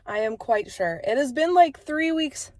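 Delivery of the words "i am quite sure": stuffy, congested voice; blocked nose. Real, not acted. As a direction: talk through a blocked nose. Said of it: "I'm very congested".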